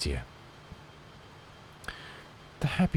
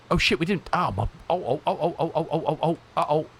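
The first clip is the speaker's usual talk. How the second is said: high, loud string of oh-ohs; rising alarm at a mistake; panicked; 9 semitones higher, 4 dB louder than usual. Real, not acted. Realises autopilot forgotten.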